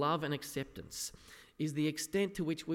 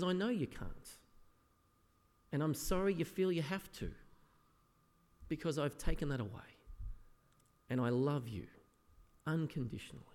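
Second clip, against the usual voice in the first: softer, gentle voice of a loving Jesus; tender reassurance; 4 dB quieter than usual. Retold or imitated. Jesus gently assuring believers of his love, softly tender. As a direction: soothe a doubting child.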